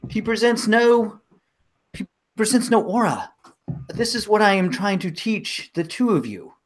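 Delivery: lightly voiced wise woman, pitch rising as she presses the point; Cosetta insisting. Wise woman chiding two doubters, rising insistence. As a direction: press them, a touch exasperated.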